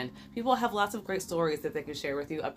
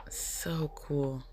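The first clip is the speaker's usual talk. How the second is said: whisper; 4 dB quieter than usual. Real, not acted. Admiring crystal, hushed.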